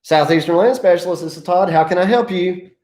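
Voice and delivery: friendly, energetic business greeting; record it as if answering live; cheerful company phone pickup; upbeat voicemail greeting. Shown as a demonstration. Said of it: "should start just like you answered the phone".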